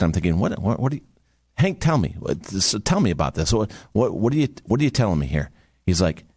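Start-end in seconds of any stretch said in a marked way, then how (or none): 0.4-5.5 baffled, repeating words as you grope for the question; perplexed. Retold or imitated. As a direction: stammer out a puzzled question with false starts. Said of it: "looked perplexed".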